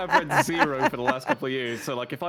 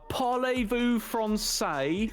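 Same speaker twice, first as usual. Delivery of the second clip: English tourist French; 4 semitones higher, much slower than usual. Retold or imitated. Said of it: "English people on holiday when it was just like".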